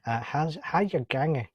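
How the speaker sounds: hearty put-on Scottish accent. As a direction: do your best amateur Scottish accent. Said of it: "that's probably my best Scottish accent".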